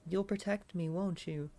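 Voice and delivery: Alexia. Acted. Alexia asks her brother to protect her, character voice. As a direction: raise the pitch into a woman character's voice. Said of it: "The Alexia voice is peak".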